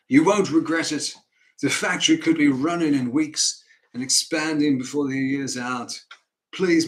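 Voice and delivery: put-on earnest, pleading northern accent; John Northbrook. Northerner begs Mister Banks for a chance, pleading northern accent. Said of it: "an honest northerner who presents his argument".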